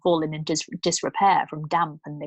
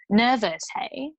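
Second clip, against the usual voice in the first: malicious; 6 semitones higher than usual. Acted. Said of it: "she asked maliciously".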